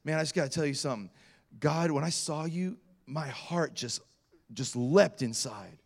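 soft, halting confession; tentative heartfelt confession. Retold or imitated. Awkward evangelist to shoe store clerk, softly earnest.

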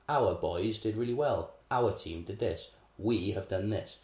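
slow, proud patriotic headline read; mock news voice. Parroting the news to students, proud and slow. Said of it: "the news will be saying".

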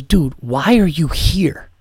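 drawn-out, mildly baffled deadpan question; incredulous quote. Retold or imitated. Dunkin' worker to a dieting customer, incredulous. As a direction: imitate a puzzled worker, stretching it slowly.

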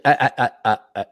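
mock sob in short repeated bursts; imitated sobbing. Man mimicking girls crying uncontrollably, mock sobbing. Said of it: "and sobbing".

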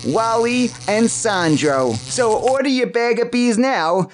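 lightly voiced, upbeat ad pitch; ad spokesman. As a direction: sell it like a cheesy TV ad. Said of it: "a word from our sponsors".

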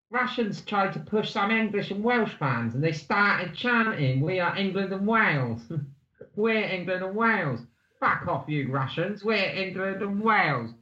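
lightly put-on Cockney recital; mock Cockney storytelling; Cockney accent. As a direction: read the script in amateur Cockney. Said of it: "say some Cockney again".

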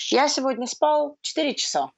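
tired whisper; sleepy whispered complaint. Pretend. Tired friend voiced.

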